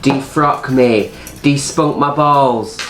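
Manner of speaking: slowly quoted improv line; lightly performed, drawn-out quote; mild imitation. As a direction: hand out each word slowly, imitating the performer. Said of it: "She's all there giving it all this".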